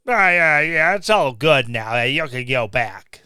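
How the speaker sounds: ordinary talk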